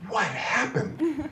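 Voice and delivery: slow, laughing "What happened?"; puzzled laugh at himself; bemused laugh. Retold or imitated. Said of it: "And I thought".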